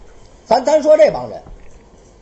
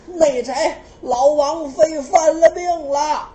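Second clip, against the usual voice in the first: urgent report; 4 semitones higher, 5 dB louder, slower than usual. Acted. Servant rushes in with news.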